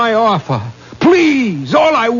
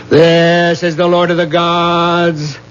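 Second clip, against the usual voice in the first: solemn incantation. Acted. Sorcerer to the lord of the gods, solemn incantation. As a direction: intone it like a ritual invocation, steady and grave.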